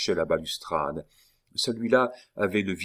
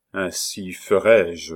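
cold reply; 6 dB louder, slower than usual. Acted. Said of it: "répliqua le grand veneur".

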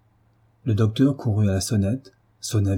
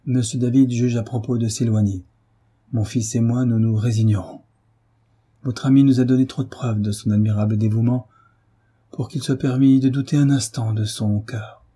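overwhelmed. Acted. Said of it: "avec accablement".

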